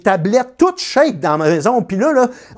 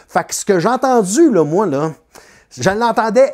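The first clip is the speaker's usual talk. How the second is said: ordinary delivery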